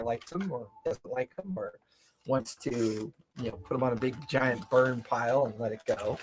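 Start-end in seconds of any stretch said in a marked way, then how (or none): none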